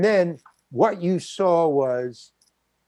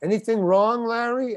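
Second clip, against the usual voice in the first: raised, higher-pitched mock director's call; retold yell; 6 semitones higher than usual. Director calling out to his actor on set, mild yell. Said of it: "then the director yells".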